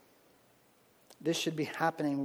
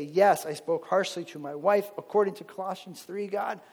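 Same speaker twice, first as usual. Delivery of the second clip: humble prayer; 3 semitones higher than usual. Shown as a demonstration. Believer praying to God for forgiveness, fading humbly. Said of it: "Ask him for forgiveness. Say".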